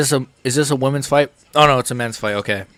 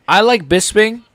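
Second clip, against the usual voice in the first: high, louder take stressing like; mock emphatic; 9 semitones higher, 4 dB louder than usual. Shown as a demonstration. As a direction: squeal the word like in mock excitement. Repeats the line, higher and louder.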